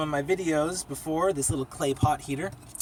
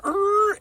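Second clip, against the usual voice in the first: mock car horn; 5 dB louder than usual.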